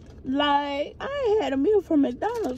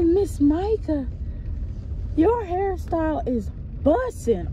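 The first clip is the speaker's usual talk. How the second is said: imitating a schoolgirl, higher pitched; fourth grader; 6 semitones higher than usual. Fourth grader praising teacher's hairstyle, imitated kid voice. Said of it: "she a fourth grader".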